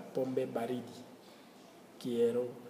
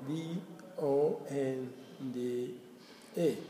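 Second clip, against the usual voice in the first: slow spelling; slower than usual. Shown as a demonstration. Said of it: "spells dónde letter by letter".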